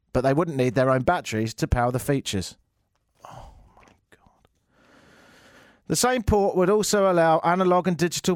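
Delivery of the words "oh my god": slow, hushed disbelief; whispered despair. Acted. Host reacting to Apple's battery claim, whispered despair. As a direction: whisper it slowly, appalled.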